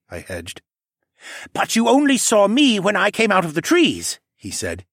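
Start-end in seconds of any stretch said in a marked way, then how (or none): 1.5-4.2 creature voice. Acted. Cadahy speaking.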